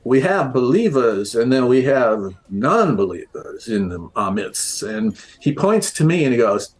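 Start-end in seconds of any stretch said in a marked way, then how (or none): 0.0-4.8 lightly imitated New Orleans drawl; New Orleans accent. Bowie holding forth at the bar, imitated New Orleans accent. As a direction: imitate a tipsy man putting on New Orleans. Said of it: "like, New Orleans accent".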